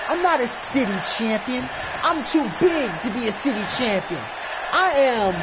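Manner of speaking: brash boastful trash talk; cocky champion promo. Acted. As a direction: puff up and brag to the challenger.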